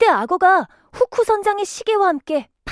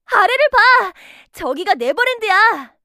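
excited call; 3 semitones higher, 5 dB louder than usual. Acted. Flying, showing Wendy below.

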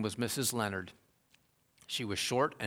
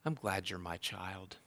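hushed, much softer, tender; gentle whisper; 3 semitones lower, 5 dB quieter than usual. Retold or imitated. Preacher voicing God to the congregation, hushed and soft. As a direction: let it fall like a quiet blessing. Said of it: "God whispers in your ear".

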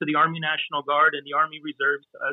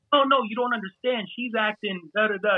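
higher-pitched defensive pleading; mock insistence, pitched up; acted-out protest; 5 semitones higher than usual. Husband protesting to the friend correcting him, defensive.

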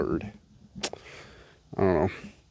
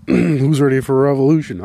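mob leader; 4 semitones higher, 7 dB louder than usual. Pretend. Rallying a mock revolution.

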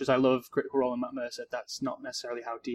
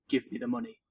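gruff low orc voice; 10 semitones higher than usual. Shown as a demonstration. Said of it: "in a gruff, low voice he says".

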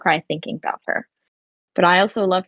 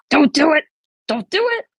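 retold plea; 6 semitones higher, 4 dB louder than usual. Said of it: "I was like".

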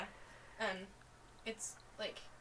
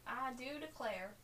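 southern accent; 3 semitones higher, 3 dB quieter, slower than usual. Shown as a demonstration. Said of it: "nice southern accent".

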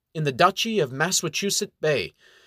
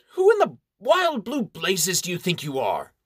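scornful baron; 5 semitones higher than usual. Acted. Baron scoffs.

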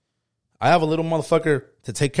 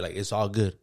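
low, soft reassurance from grandpa; understated consolation; retold quiet comfort; 6 semitones lower, 7 dB quieter than usual. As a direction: settle it quietly.

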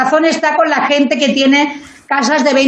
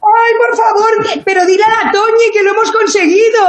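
excited shout; 5 semitones higher than usual. Real, not acted.

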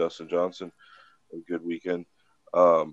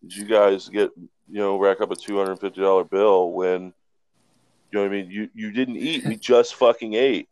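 dad's retold angry rant, a little louder; replaying his dad's rage, pitched up; mock angry dad; 3 dB louder than usual. Son imitating his furious dad over the bar bill, mock angry. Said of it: "He was so mad".

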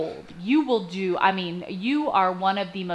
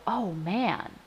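grateful realization; 3 semitones higher, 7 dB louder, slower than usual. Retold or imitated. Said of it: "I go".

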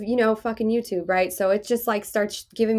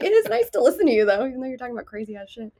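imitating the cousin; 4 semitones higher, faster than usual. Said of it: "she's like".

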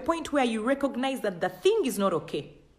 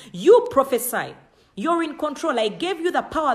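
forceful command; 2 semitones higher, 6 dB louder than usual. Acted. God insisting the man speak.

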